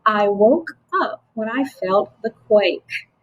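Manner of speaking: I woke up / when I felt the quake, slowly; group "I woke up", then "when I felt the quake"; grouped in phrases. Shown as a demonstration. Teacher modelling phrased reading, "I woke up" then "when I felt the quake". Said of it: "I group some words together in a phrase".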